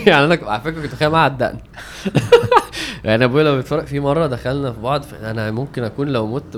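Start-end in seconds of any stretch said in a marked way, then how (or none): 0.1-1.6 laughing while talking. Real, not acted. Laughing while telling story. 1.6-3.0 high-pitched burst of laughter. Real, not acted. 3.0-5.0 laughing while talking. Real, not acted. Laughing while telling story.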